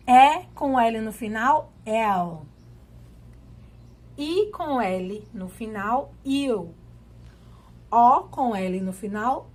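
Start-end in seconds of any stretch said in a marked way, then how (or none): 1.8-2.4 "el" said as open E gliding into U; L sounded as U. Shown as a demonstration. Teacher demonstrating E with L at the end, L sounded as U. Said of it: "um som de U". 6.2-6.7 "il" said as I gliding into U; L sounded as U. Shown as a demonstration. Teacher demonstrating I with L at the end, L sounded as U. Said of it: "um som de U".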